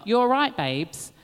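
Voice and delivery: a light British "you're right, babes"; tossed off like a Londoner; British slang accent. Retold or imitated. RuPaul using British slang, lightly done in a British accent. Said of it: "British isms".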